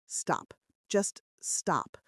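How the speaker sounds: hushed, voiceless plea to stop; whisper. Acted. Isabel hushing Dante in the car, whispered. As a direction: whisper it to calm him down. Calming Dante, hand over his.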